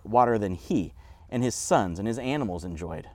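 mildly challenging woman's questions; lightly acted skeptical pushback; edge in voice. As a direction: question him with a bit of an edge. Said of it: "to hear the edge in her voice".

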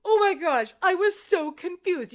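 normal talking voice

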